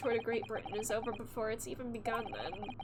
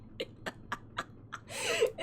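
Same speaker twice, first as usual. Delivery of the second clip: breathless laugh. Real, not acted. Panicked laugh.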